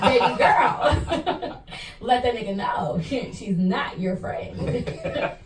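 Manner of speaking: lightly voiced B Simone, slow drawn out; a hint of B Simone, laughing. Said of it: "Am I B Simone voice?".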